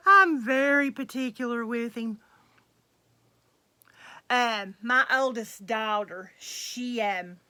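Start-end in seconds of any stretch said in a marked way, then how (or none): 0.0-2.2 laughing. Real, not acted. Laughing at her own fussiness.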